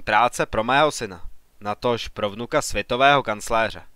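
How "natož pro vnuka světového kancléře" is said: usual speaking voice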